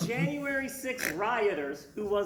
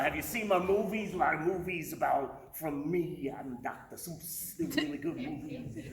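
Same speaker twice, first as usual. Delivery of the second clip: mock Dr. Seuss; 7 semitones lower than usual. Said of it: "Pretty accurate".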